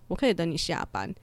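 evenly spoken, composed reply; calm. Retold or imitated. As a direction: answer an outburst without any heat. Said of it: "我就也是很平静的跟他说".

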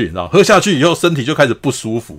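normal talking voice

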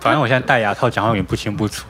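talking through braces; slightly unclear speech from braces. Real, not acted.

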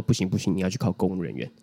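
low, firm parent refusing; stern parent. Retold or imitated. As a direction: flatly refuse like a strict parent. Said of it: "你说：".

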